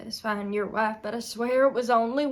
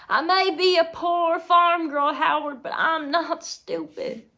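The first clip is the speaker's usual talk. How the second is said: loud, raised, indignant retort; defiant; 6 semitones higher, 7 dB louder than usual. Acted. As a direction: stand up for yourself, voice high and loud.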